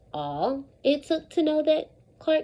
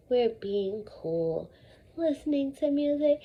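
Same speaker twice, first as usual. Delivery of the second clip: relaxed, calm; 3 semitones lower, 5 dB quieter than usual. Pretend. Teacher acting out listening to music with earbuds, soft and calm. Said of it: "now we are gonna act it out".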